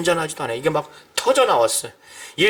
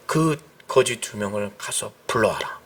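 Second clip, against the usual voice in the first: Jesus's command; 9 semitones lower, 4 dB quieter than usual. Retold or imitated. Jesus commands to call them.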